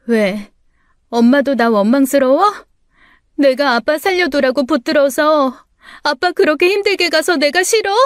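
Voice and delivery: rising high, hurt and accusing; bitter accusation. Acted. Daughter accusing her mother over father's death, rising bitterly. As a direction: throw the guilt at her.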